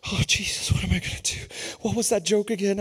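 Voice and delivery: voiceless panicky muttering to oneself; nervous whisper. Retold or imitated. Preacher turned to the board, nervous whisper. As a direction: whisper it anxiously under the breath. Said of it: "I'm nervous".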